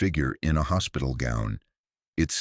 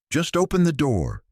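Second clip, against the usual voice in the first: eerie voice; 11 semitones higher than usual. Acted. Voices behind the basement door.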